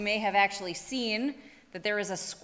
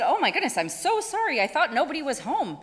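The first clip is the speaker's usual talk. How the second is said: flustered apology; 5 semitones higher, 3 dB louder, faster than usual. Acted. Squirrel apologizing to owl.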